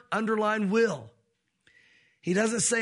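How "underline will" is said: will said slow and pointed; stress on WILL. Shown as a demonstration. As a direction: underline the word will as you say it. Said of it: "If you're an underliner".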